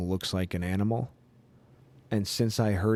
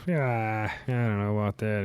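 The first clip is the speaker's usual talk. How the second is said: drawn-out noncommittal comedian impression; celebrity impression, reluctant and unsure; Ray Romano; 2 semitones higher, slower than usual. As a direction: stretch the words like a doubtful sitcom dad. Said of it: "all he has to do is go".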